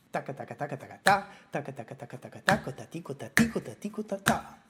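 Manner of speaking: taka taka with ta punched; accents on the compass. Shown as a demonstration. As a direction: chant the step, hit the final ta. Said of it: "where are the accents".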